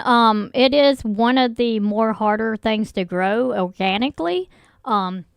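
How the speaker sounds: throat catching, a little hoarse; frog in throat. Real, not acted. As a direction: talk through a frog in the throat. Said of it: "got a frog in my throat".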